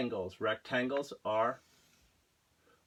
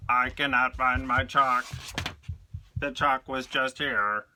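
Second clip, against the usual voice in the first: robot voice; 3 dB louder than usual. Shown as a demonstration. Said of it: "So you can talk like a robot".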